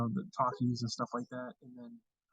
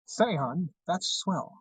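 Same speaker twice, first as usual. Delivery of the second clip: Mid-Atlantic accent; 3 semitones higher, much slower than usual. Shown as a demonstration. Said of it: "I like talking with a Mid-Atlantic accent".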